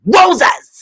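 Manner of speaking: high startled wowzers; mock shock. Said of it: "I'm like".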